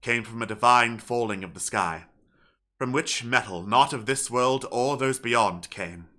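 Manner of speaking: solemn, measured letter reading with long pauses; father's farewell letter. Acted. Reads a father's letter aloud in character.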